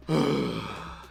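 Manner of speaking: mock yawn breathed out; open-throated sigh as a voice exercise; demonstrated yawning sigh. Shown as a demonstration. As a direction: let out a deliberate yawny sigh. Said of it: "techniques involve coughing or yawning".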